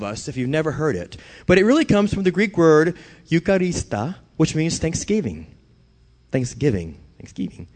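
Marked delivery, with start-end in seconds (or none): 3.3-4.2 Eucharista said with a Spanish accent. Shown as a demonstration. Preacher slipping into Spanish accent on a Greek word. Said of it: "I said Greek with a Spanish accent". 7.2-7.7 Thanksgiving whispered, soft and breathless. Shown as a demonstration. Preacher repeating Thanksgiving to the congregation, whispered.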